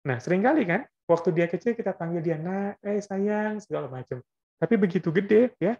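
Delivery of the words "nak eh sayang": tender cooing. Retold or imitated. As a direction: linger fondly on each word. Parent cooing at small child. (memanggil anak kecil dengan lembut dan pelan)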